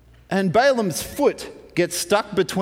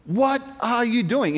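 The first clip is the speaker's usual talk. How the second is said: mild mock scolding, pitched up; cursing; 4 semitones higher than usual. Balaam in his fury at the donkey lying down, mock cursing. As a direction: snappish retold exasperation. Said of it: "just starts cursing at the donkey".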